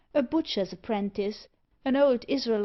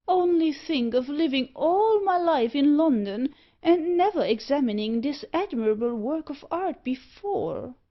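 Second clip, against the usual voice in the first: higher, delighted, lost in the carving; excited cry; 6 semitones higher, 4 dB louder than usual. Acted. Loftus gushing over the carving, higher and excited. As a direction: gush over the statue with rapture. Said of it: "cried Loftus".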